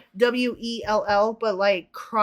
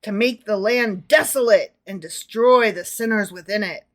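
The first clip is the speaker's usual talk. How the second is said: emphatic prophetic declaiming; theatrical Bible verse; dramatic scripture reading; 4 dB louder than usual. Acted. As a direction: proclaim it with weighted key words. Reads scripture aloud to co-host.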